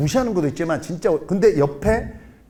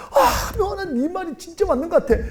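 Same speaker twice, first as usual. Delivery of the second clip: much higher, playful female voice; imitating a comedian friend; 12 semitones higher, faster than usual. Lecturer quotes comedian friend agreeing, high mock voice. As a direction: pitch up high to mimic the older sister. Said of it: "개그맨 김미아 누나 아시죠?".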